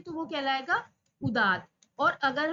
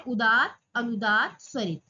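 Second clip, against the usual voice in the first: falling accent demo; 4 semitones lower, 3 dB louder than usual. Shown as a demonstration. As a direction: step the pitch down across the three. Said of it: "उच्च उदात है, नीचे अनुदात है".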